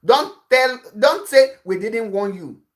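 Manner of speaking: normal talking voice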